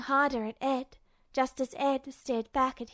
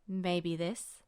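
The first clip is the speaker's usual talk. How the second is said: low, soft, doubtful question; unsure question; 7 semitones lower, 6 dB quieter than usual. Acted. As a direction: ask it without conviction. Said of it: "he questioned, unsurely".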